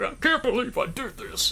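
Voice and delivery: high mock crying voice; imitating tearful actor. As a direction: ham up a teary confession. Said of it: "starts crying".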